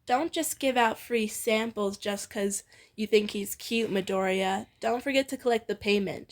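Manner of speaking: sly teasing jab; playful wink in the voice. Acted. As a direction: tease him about the cute boy. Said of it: "with a teasing glare".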